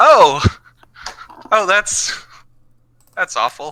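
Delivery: upbeat, chipper. Reacting to a bad dice roll, cheerful. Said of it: "That's a very cheerful awful".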